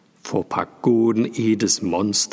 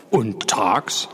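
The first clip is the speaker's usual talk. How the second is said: 1 whispered question. A narrator's reading. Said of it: "rief Paul".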